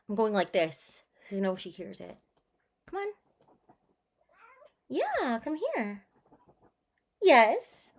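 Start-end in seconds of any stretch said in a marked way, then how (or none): 2.8-7.9 high soft coo to a pet; cooing pet voice, higher and softer. Real, not acted. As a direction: sweet-talk the kitty softly. Coaxing the cat to come.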